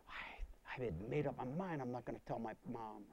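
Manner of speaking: whispered, barely voiced confession; hushed whisper. Recalling his secret at the bedside, hushed whisper. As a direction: whisper the resolve. Telling of fear.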